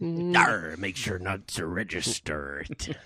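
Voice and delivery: slow growly pirate talk. Pretend. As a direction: play a hammy sea pirate. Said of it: "I was just doing the pirate voice".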